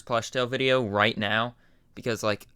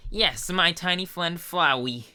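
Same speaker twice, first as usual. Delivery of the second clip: higher, slow fond skeleton; proud cheerful greeting; lightly voiced Papyrus; 6 semitones higher, slower than usual. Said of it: "Papyrus voice".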